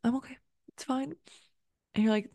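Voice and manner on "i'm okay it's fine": higher, fading as it goes; a friend brushing off tears, higher and fading; mock brave face. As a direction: fake it's-fine voice over a sad friend. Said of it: "they are really sad and they're like".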